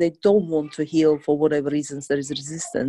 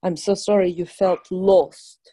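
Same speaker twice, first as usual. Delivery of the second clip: slow gentle apology; 2 semitones higher, 3 dB louder than usual. Shown as a demonstration. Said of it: "healer models phrase slowly".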